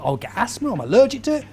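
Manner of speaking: hammed-up grumbling list of objections; exaggerated protesting; mock complaining. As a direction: whinge through the excuses, pitch jumping about. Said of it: "I went into complain mode".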